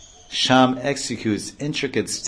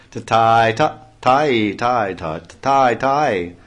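excited uttering; 4 dB louder, slower than usual. Acted. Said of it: "excitedly uttering".

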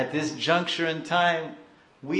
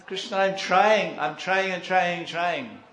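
higher, insistent mock plea to God; acted crying plea; 5 semitones higher, 3 dB louder than usual. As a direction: plead as a frustrated devotee, voice raised. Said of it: "he's crying".

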